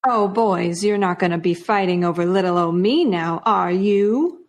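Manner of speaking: a light hint of a flirty damsel; coy Batgirl voice.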